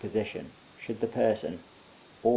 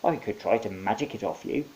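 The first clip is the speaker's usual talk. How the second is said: hag voice. Acted. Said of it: "one of the hags said".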